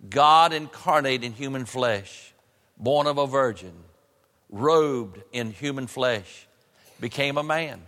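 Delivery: slow, solemn proclamation in separate phrases; preaching. Real, not acted. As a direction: let each phrase stand alone, drawing out key words.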